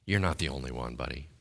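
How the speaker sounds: a hint of a low, dry God; lightly voiced God, gently correcting. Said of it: "God's gonna say".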